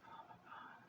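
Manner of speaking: hushed, barely audible aside; swooning whisper. Real, not acted. Woman remembering how good his kiss was, swooning whisper. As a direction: breathe it out in a whisper.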